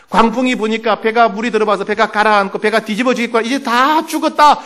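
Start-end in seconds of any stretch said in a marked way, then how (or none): 3.4-4.6 high, drawn-out despair, acted; slow, raised wail of doom; trembling dread. Disciples in the sinking boat, acting out dread. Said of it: "벌벌벌 떨고 있어요".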